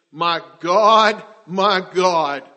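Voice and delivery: my God called out loud and anguished; loud cry. Retold or imitated. Jesus on the cross crying out to God, loud anguished call. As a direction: cry it out to heaven. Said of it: "cried out with a loud voice".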